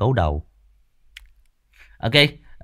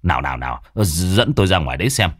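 urgent village head; 5 dB louder than usual. Acted. Long urging her on.

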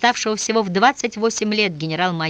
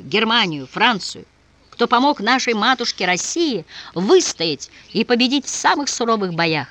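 impassioned appeal; 4 semitones higher than usual. Acted. General rallies the wavering soldiers. (страстный высокий призыв)

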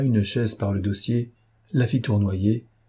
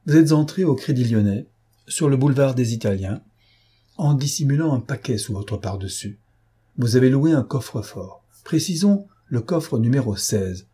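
lightly voiced, insistent accuser; interrogating stranger; 3 semitones higher than usual. Stranger confronts captive with his bank visit, mildly insistent. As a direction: lay out the evidence point by point.

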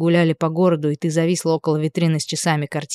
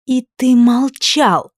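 higher, slowed, each word dragged out; slow furious accusation; 7 semitones higher, 3 dB louder, much slower than usual. A narrator's reading. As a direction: lean into every word. Furious quarrel, blaming him.

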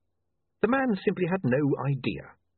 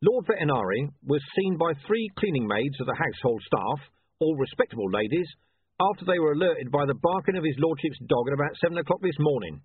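a plain, formal report read aloud; official report tone; 4 semitones higher than usual. A narrator's reading. Vimes giving the facts to William, formal report tone. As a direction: switch into reading the record. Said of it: "in a slightly different tone of voice".

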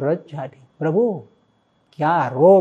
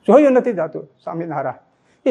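grieving father's cry; 3 dB louder than usual. Retold or imitated. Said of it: "એ સ્વામિનારાયણ બોલ્યા".

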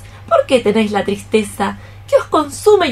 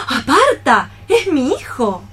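shocked outcry; 3 semitones higher than usual. Acted. Mother learns girl loves her son.

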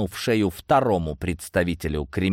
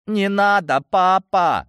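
high, loud sobbing plea; child crying out to his father; 11 semitones higher, 5 dB louder, slower than usual. A narrator's reading. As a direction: wail it like a crying little boy. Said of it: "заплакал мальчик".

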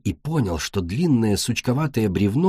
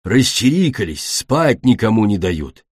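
growling dragon. A narrator's reading. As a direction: grumble it like a woken-up dragon. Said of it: "прорычал земляной дракон". (ворчливое драконье рычание)

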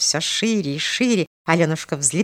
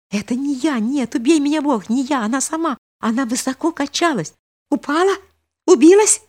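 panicked denial; 10 semitones higher than usual. A narrator's reading. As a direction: swear it wasn't you, then scream. Boy defends himself in panic. (испуганное оправдание юноши)

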